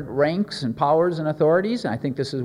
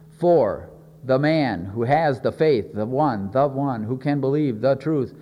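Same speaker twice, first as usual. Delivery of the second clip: slow, weighty "the man", "the one" with THE stressed; single him out by leaning on "the" before "one"; 3 semitones lower, slower than usual. Acted. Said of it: "it points the emphasis upon that man".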